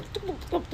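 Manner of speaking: mouthed little thumps of someone eating; imitated eating clatter. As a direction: imitate a fork knocking on a plate. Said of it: "like somebody eating".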